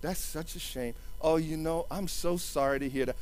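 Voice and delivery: hushed sympathy, put on; mock pity. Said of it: "people are like".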